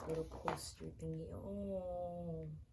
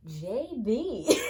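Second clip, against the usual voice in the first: loud, higher JB shout of delight; excited shout; 6 semitones higher, 14 dB louder than usual. Real, not acted. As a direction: yell the name out, thrilled. Squeals at double card.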